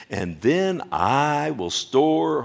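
"I" drawn out slowly and leaned on; slow right down and stretch "I"; stress on I. Acted. Preacher quoting the self-centred rich man, stress on I. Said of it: "He has a problem with I and my".

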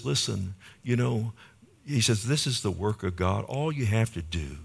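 soft, gentle invitation as Jesus; tender. Acted. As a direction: quietly plead with the crowd to believe. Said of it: "Jesus is so tender with them".

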